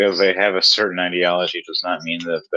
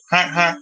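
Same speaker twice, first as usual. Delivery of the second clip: clown honk; 9 semitones higher than usual. Pretend. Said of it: "I can't even honk today".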